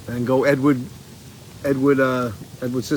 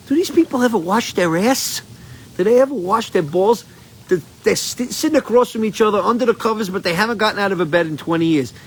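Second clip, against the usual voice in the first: put-on higher, incredulous kid's outburst; kid's disgust; 5 semitones higher than usual. Remembering himself as a kid watching the grandparents, mock disgusted. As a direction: ask it like a grossed-out child. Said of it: "I remember being a kid and watching this movie and going".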